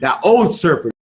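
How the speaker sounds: put-on "old" drawn out and leaned on; stress on old. Shown as a demonstration. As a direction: put the weight on the word "old". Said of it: "it specifically uses the word old".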